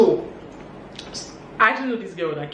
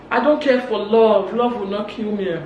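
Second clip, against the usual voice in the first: imitated indignant outburst; retold angry declaration; 3 semitones higher, 3 dB louder than usual. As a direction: act out someone angrily declaring it. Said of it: "Obi started getting angry".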